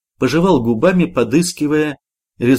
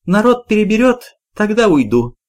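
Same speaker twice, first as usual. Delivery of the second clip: ordinary delivery, nothing marked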